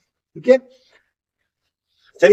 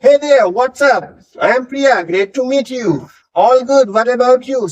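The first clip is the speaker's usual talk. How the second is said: casual greeting; 3 semitones higher, much slower than usual. Shown as a demonstration.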